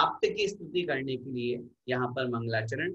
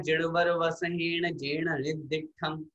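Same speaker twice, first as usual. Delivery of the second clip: scripture recitation; slower than usual. Shown as a demonstration. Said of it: "तो वहां लिखा है".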